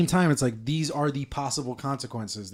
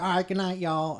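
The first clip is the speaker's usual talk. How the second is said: higher-pitched super Southern sign-off; Southern accent; 5 semitones higher than usual. Retold or imitated. Wife's cousin saying good night, high Southern accent. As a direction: imitate a very Southern woman. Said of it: "She's fucking super Southern".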